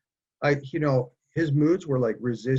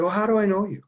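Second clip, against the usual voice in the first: lightly voiced puzzled mom, higher pitch; raised-pitch retelling of a confused question; puzzled mother; 8 semitones higher, 4 dB louder, faster than usual. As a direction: imitate mom's baffled question, pitched up.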